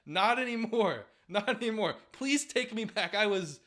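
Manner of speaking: put-on high, laughing voice of a just-woken old ballplayer; hammed-up old man pulled from heaven; groggy Ted Williams. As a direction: whine through giggles about the dream.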